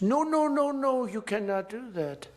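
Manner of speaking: hammed-up French president yelping no; mock panicked Macron. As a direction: Macron hears the wine tariff, panicked mock yelp. Macron voiced hearing tariff threat.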